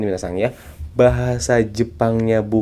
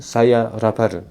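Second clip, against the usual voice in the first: put-on slow Japanese-accented "saya rapar", R for L; much slower than usual. Teacher contrasting a Japanese accent with Chinese. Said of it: "Kalau orang Jepang".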